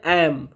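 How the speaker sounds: एम with open vowel, closing on m; pronunciation demo. Shown as a demonstration. Teacher showing how the word is read, एम set apart. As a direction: give एम alone as a model word. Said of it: "इसको क्या हम लोग पढ़ते हैं".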